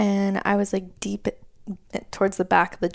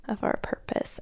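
whispering; 8 dB quieter than usual. Real, not acted. Speaks of the whisper of purpose.

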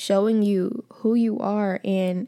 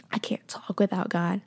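whispered; 5 dB quieter than usual. Real, not acted. Whispered in list of needs.

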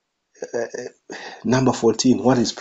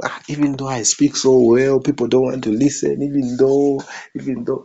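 raised-pitch imitation of a puzzled orator; mock complaint; 3 semitones higher, 4 dB louder than usual. Preacher mimics someone who relies on eloquence, mock complaining. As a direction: act out a frustrated speaker's protest.

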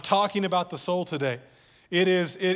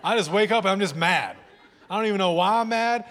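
laughing mock grump; 4 dB louder than usual. Real, not acted. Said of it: "you know how you wake up?".

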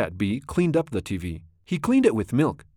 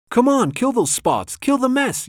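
high, loud rallying cry; excited, acted war cry, pitched way up; storybook battle yell; 12 semitones higher, 5 dB louder than usual. A narrator's reading. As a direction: urge the troops on with a yell. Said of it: "yelled the cats".

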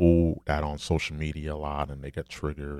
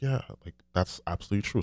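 eager agreement; 5 semitones higher, much faster than usual. Retold or imitated. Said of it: "I was like".

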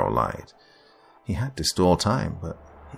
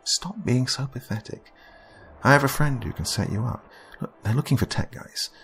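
higher, urgent, heartfelt appeal; exasperated but caring, pitched up; pleading Amber; 6 semitones higher than usual. A narrator's reading. Amber begging Daryl to accept her help, pleading.

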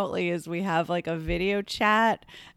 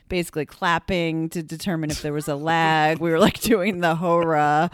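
muffled through a mask; 3 dB louder than usual. Real, not acted. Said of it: "That's why you sound muffled".

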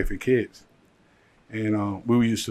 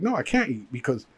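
frantic pleading; 4 semitones higher than usual. Retold or imitated. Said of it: "And I'm like".

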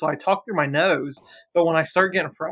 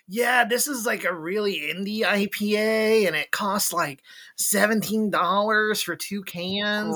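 enthusiastic friend; 5 semitones higher, slower than usual. Retold or imitated. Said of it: "he'd be like".

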